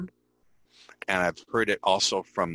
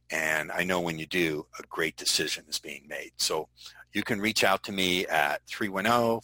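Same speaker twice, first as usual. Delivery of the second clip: demo voicemail. Shown as a demonstration. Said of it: "I would say".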